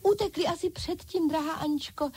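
high excited doll chorus; dolls crying out. A narrator's reading. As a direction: cry it out high and eager. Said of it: "vykřikly panenky". (vysoké vzrušené vykřiknutí panenek)

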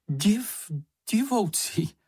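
a hesitant try at being funny; attempted joking. A narrator's reading. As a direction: stumble into a feeble joke. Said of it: "ve snaze žertovat".

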